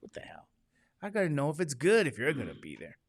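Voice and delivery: a hint of a smooth romantic charmer; lightly voiced romantic husband. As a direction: sweet-talk her, lightly put on. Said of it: "I'll say it in my romantic voice".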